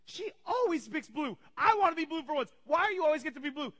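high, loud mock tantrum; ballistic child. Colin raging about his sister picking blue, high mock tantrum. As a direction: imitate a kid losing it over unfairness. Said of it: "Colin goes ballistic".

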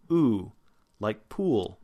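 pure "oo" as in "pool"; oo vowel. Shown as a demonstration. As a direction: sound out a clear "oo", then "pool". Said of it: "it's oo".

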